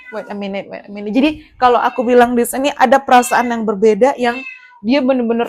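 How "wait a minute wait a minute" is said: hushed, half to herself; quiet aside. Real, not acted. Pausing the reading for the cat, hushed. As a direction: drop the voice, distracted for a moment.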